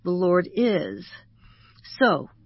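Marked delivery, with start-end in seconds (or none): 0.0-1.1 is drawn out and stressed. Shown as a demonstration. Counselor showing the emphasis exercise, stress on is. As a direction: land slowly on the word is. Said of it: "emphasize each of the five words".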